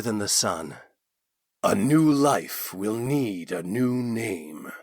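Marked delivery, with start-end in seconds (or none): 1.6-4.7 put-on slow, wise old voice; sage. A narrator's reading. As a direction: speak slowly like a sage. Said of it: "Tavi stated sagely".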